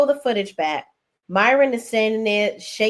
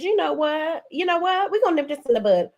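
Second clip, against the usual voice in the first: high, fast imitation of the pastor's wife; mimicking a fed-up Rashida; Rashida quoting; 6 semitones higher than usual. Recapping the show, mimics Rashida cutting things off. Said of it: "she said".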